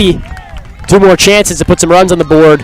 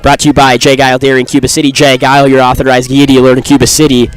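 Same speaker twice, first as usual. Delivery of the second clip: ad read; faster than usual. Acted. Sponsor read in play-by-play.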